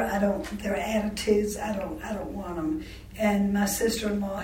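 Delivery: ordinary delivery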